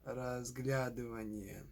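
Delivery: "разглядывание" stressed on ГЛЯ; разглЯдывание, stressed like its verb; stress before yva. Shown as a demonstration. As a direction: hit ГЛЯ in "разглядывание", rest unstressed. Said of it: "stress is before the iva".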